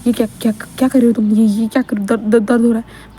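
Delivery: stuttering in mild mock shock; shocked stammer. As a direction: stammer it out as if stunned, lightly acted. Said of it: "wing पूरा shock". (हल्के बनावटी सदमे में हकलाते हुए)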